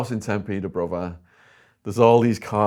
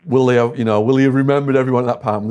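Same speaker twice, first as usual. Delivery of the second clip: panicked; 4 semitones higher, 8 dB louder, faster than usual. Retold or imitated. Panicked group debate.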